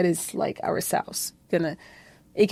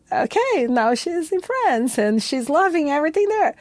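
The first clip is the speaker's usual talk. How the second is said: imitating mom; 8 semitones higher than usual.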